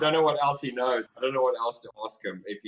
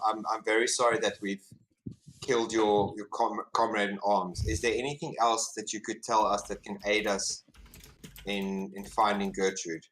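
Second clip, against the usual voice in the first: mildly soothing, measured diplomacy; lightly acted, apologetic appeal for help; calming apology; 2 semitones lower than usual. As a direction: gently coax a captive with an apology. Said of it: "try and calm the fellow down".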